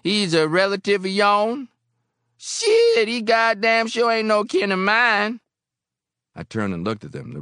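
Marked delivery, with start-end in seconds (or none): 0.0-5.4 loud, high-pitched jeering drinker; indignant bar patron. A narrator's reading. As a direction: sound off loudly, high and scornful.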